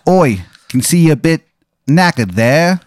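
mild fake Cockney put-on; a light bad London accent; bad English accent. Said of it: "it's a really bad English accent".

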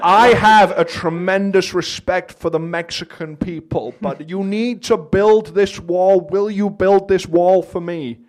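slow, high drawling Owen Wilson; laid-back Owen Wilson voice; Owen Wilson impression. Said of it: "It's Owen Wilson".

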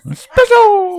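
high loud squealed espresso; cartoon hype squeal; overacted anime dub. Anime voice bit continues.

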